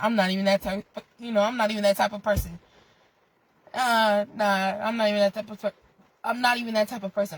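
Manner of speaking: fast, stuttered restarts; stumbling. Real, not acted. Vlogger stuttering over those words, stumbling. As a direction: trip over the line and restart. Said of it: "I don't even know why I am stuttering".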